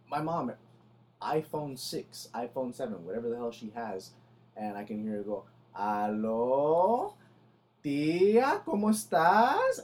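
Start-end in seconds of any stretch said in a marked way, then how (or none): 5.8-9.8 loud, drawn-out mock phone greeting, pitch soaring; yelling into phone. Imitating mom answering the phone, yelled and stretched out. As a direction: holler each word down an old phone line. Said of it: "yelling into the phone".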